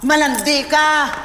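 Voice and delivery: tearful shouted confrontation. Acted. Villain insulting the heroine.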